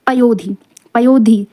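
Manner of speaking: slow, deliberate teacher's dictation; पयोधी said twice, slowly and clearly; slow, careful repetition. Shown as a demonstration. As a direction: spell it out slowly for the class. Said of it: "इसको ध्यान दीजिएगा".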